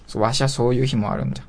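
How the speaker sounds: put-on creaky wise old man. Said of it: "ばあちゃん、ちょっと違くない？".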